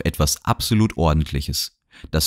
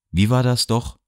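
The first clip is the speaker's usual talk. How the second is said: a soft, silky menace; cruelly soft; 6 semitones higher than usual. A narrator's reading. Sinister gentleman asking Anna, cruelly soft. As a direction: purr the question with quiet cruelty. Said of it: "seine Stimme klang grausam weich".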